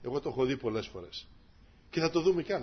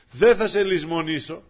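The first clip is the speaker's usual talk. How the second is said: louder, slow, stress on Δεν; emphatic promise; 4 semitones higher, 11 dB louder than usual. Acted. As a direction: proclaim it slowly to the congregation. Repeating God's promise emphatically. (με έμφαση και αργά)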